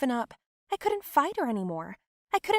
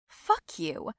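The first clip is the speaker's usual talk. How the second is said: hissed curse; 13 semitones higher than usual. Acted. Angry retort to cousin.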